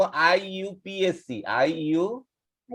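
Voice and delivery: আইইউপিএসসি spelled out slowly, letter by letter; letter-by-letter reading. Shown as a demonstration. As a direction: say আইইউপিএসসি as slow, separate letter names. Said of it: "এটাকে আমরা কিভাবে পড়বো". (আইইউপিএসসি ধীরে ধীরে অক্ষর ধরে উচ্চারণ)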